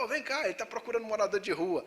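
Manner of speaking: mild mock call across the street; half-hearted shout to his mates; retold shout. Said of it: "Ele começou a gritar".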